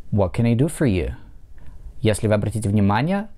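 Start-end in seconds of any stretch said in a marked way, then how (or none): 0.1-1.1 what can I do for you with do stressed; stress on do, falling. Shown as a demonstration. Teacher models a wh-question falling on do. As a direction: hit do and let the tune fall. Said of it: "падает на глагол do".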